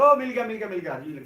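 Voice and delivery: loud, thrilled cry of discovery; a layman's loud eureka yell; mock eureka shout. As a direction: shout it like you just found treasure. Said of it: "चिल्लाना शुरू कर देगा".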